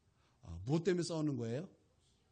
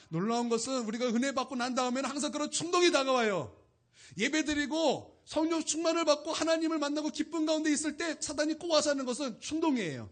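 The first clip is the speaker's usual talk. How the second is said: higher, louder urgent sermon; impassioned preaching; 8 semitones higher, 7 dB louder than usual. Acted. Pastor warning the congregation, impassioned preaching. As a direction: drive the warning home.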